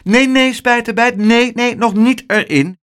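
high, loud urgent no; urgent calling out. A narrator's reading. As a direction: stop the boy in a hurry. Weatherman stopping the boy.

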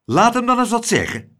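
hoge, geërgerde stem; kwaad. A narrator's reading. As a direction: eis het kwaad. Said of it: "zei meneer Cocklesmith kwaad". (boos en verhit)

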